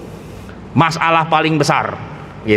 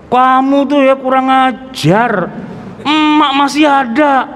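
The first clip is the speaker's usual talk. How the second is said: angry mother; 5 semitones higher, slower than usual. Retold or imitated. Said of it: "Marah dia".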